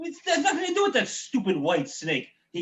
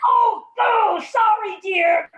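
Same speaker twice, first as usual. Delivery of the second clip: loud flustered apology; 9 semitones higher, 7 dB louder, much slower than usual. Acted. Father apologising to a shouting child.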